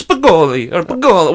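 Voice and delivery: garbled, imitated Italian food word; hammed-up fake Italian pronunciation; mock Italian accent. Mocking a buddy's sandwich order, fake Italian accent. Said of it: "it's always Italian".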